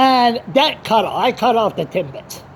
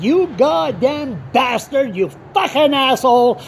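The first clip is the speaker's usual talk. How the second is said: mad; 5 semitones higher than usual. Retold or imitated. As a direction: curse them out, furious retelling. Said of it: "I was so mad when I heard it".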